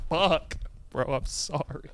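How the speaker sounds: small, soft, embarrassed mumble; sheepish retold apology. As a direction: apologize quietly, acting out your own embarrassment. Retold sheepish apology after blocking someone.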